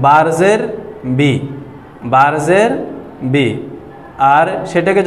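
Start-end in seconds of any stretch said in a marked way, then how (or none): 1.2-1.3 বি said short, without stretching; quick short vowel. Shown as a demonstration. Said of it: "তাড়াতাড়ি উচ্চারণ করেছি". 3.3-3.5 বি said short, no stretch; quick short vowel. Shown as a demonstration. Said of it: "তাড়াতাড়ি উচ্চারণ করেছি".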